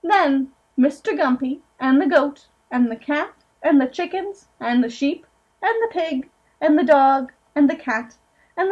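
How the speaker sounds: gentle storybook reading aloud; picture-book narration, lightly sing-song; reading to children. Acted. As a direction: read it to a room of small kids.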